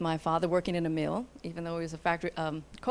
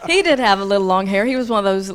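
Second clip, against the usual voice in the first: laughing; 10 dB louder, much faster than usual. Real, not acted. Laughing about her husband.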